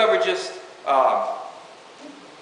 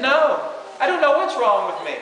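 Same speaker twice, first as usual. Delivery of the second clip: put-on teen girl; 9 semitones higher than usual. A teen daughter home from church tells her mom, voice raised high and weepy. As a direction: lightly play a weepy girl, pitched well up.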